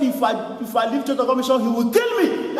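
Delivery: rising to a shout at the end; retold protest. Pastor Joseph calls out from across the room, fast and rising to a shout. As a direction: build from fast to a loud cry. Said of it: "Pastor Joseph said from the other end".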